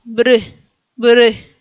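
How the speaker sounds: "Bry" with lips pushed into an O; duck-lipped "Bry", vowel between E and I; O-shaped mouth Y. Shown as a demonstration. Teacher gives the key, "Bry" with O-shaped mouth. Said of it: "la boca como una O".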